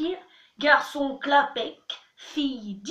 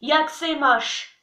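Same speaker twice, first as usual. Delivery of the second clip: burp talking; 3 dB louder, slower than usual. Shown as a demonstration. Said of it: "un peu de tchèque en rotant".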